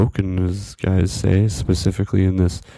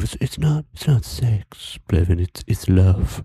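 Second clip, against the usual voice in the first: mock-earnest correction; slower than usual. Joking to friend about horses, mock-earnest. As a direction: gently plead the absurd case.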